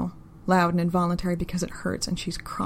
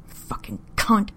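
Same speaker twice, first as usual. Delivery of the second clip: whispering; 3 semitones higher, slower than usual. A narrator's reading. He curses in whisper.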